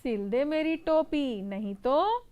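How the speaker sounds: bossy threat. Acted. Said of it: "बड़े रौब से कहा".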